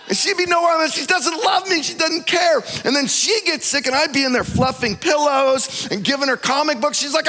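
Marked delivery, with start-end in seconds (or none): 0.1-2.6 mock self-pity. Self-pitying mock complaint.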